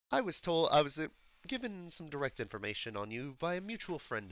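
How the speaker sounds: understated, sophisticated English elf; measured attempt at posh London speech; posh English accent. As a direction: discreet English informant, with deliberate pauses. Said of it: "very sophisticated, like, sounding English accent".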